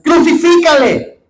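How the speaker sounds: a high, loud, drawn-out cry of the mob; crowd shouting. Acted. Preacher voicing the crowd before Pilate, loud shout. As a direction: shout it like an angry crowd demanding death. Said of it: "Y ellos volvieron a dar voces".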